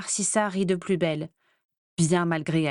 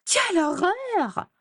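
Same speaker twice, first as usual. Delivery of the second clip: much higher, slow mimicking wail; mocking high voice; 11 semitones higher, slower than usual. A narrator's reading. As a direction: ape her sister's shriek to tease her. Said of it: "avec une voix aiguë".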